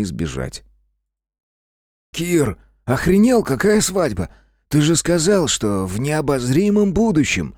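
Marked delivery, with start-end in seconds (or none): 2.1-7.5 high-pitched, drawn-out disbelief; stretched, indignant protest. A narrator's reading. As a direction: confront your friend in outrage. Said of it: "возмущается Жека".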